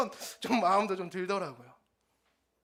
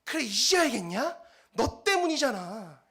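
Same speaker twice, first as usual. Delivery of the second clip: a cocky wife rubbing it in, a bit louder; wife taunting her husband, smug and triumphant; smug gloating; 5 dB louder than usual. Retold or imitated. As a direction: gloat over the husband's apology. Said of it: "아주 기고만장해져서".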